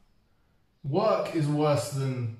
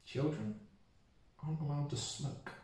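secret; 10 dB quieter than usual. Acted. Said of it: "I'm gonna let you in on a little secret".

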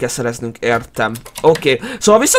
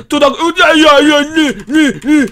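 higher-pitched mock squeals; imitated silly noise; 3 semitones higher than usual. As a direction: imitate an idiotic game sound. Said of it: "mert én tudok ilyet!". (hülye hang utánzása)

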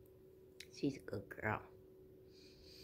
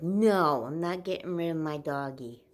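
retold protest; 7 dB louder, slower than usual. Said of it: "I was like".

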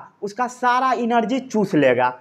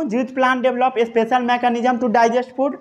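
dictation; much slower than usual. Shown as a demonstration.

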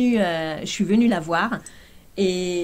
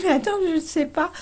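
flustered surprise; 10 semitones higher than usual. Retold or imitated. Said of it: "Je lui dis".

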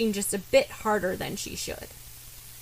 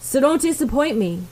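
short, brisk and a bit louder; 4 semitones higher, 5 dB louder than usual. Acted. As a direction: clip it off like an order. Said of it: "followed by a brisk".

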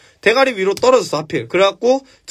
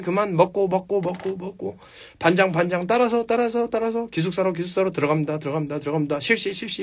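doubling headmaster; 4 dB quieter than usual. Retold or imitated. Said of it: "교장 선생님이".

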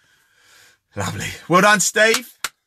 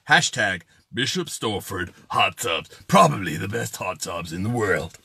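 mock advert voiceover; 7 semitones lower than usual. Host plugging the hot tubs to viewers, mock advert voiceover.

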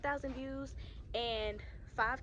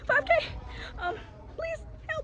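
loud, high-pitched panicked yelling; mock panic; 11 semitones higher, 11 dB louder than usual. Vlogger begging viewers for help while followed, in loud mock panic. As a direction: shriek it like you're being chased.

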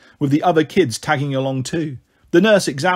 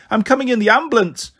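put-on high-pitched insistent child's call; 7 semitones higher than usual. A narrator's reading. Small girl insisting on the ambulance ride, calling out. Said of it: "Pixie called".

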